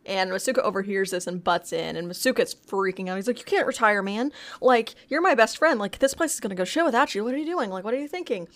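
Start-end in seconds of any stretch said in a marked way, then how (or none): 3.4-8.5 mock panic. Retold panicked coworker.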